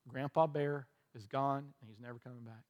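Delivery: retold fatherly bad news, hushed at the close; gently breaking bad news. Repeats father's bad news to daughter.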